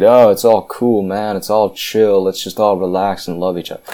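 mock the carefree hippie, half-hearted. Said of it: "a big hippie who just said".

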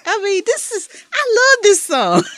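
high-pitched, overcome fan gushing; real emotional outburst of affection; getting emotional. Real, not acted. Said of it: "I'm finna get emotional".

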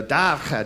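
"davka" with a raspy kh sound; guttural davka. Shown as a demonstration. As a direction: say "davka" as "davkha". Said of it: "you just have to, "huh".

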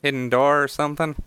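put-on high Jersey halfling kid; Jersey accent. Halfling boy asking about a hidden door, Jersey accent. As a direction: pitch it up, Jersey style. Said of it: "give him a Jersey accent".

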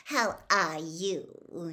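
gushing greeting. Acted. Reporter gushes a greeting to the headmaster. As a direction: lay the charm on thick.

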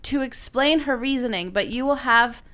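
measured advice-column read; reading aloud. Acted. Reading written advice to co-host, reading aloud. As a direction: read it out deliberately.

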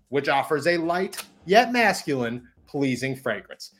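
upbeat sponsor ad read. Acted. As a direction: sell it like a podcast ad. Host reads sponsor ad.

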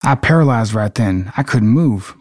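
acted Southern US voice; Southern accent. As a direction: say it like a Mississippi local. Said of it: "practice with our Southern accents".

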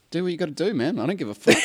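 retold cool indifference; straight-faced. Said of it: "I'm just straight facing him".

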